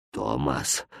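a low hushed whisper of a name; king whispers to his servant, hushed. A narrator's reading. The king whispering Thomas's name in the night. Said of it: "прошептал король".

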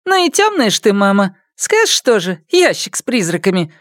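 high mocking retort to her mother; scornful daughter. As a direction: scoff at the old woman's superstition. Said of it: "матушка".

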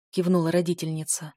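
plain reading voice

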